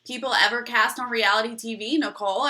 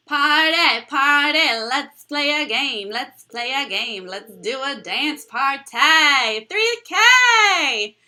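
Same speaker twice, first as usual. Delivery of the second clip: loud, drawn-out celebratory chant; party cheer; 3 semitones higher, 9 dB louder, slower than usual. Real, not acted. Streamer celebrates three thousand subscribers with viewers, loud cheering.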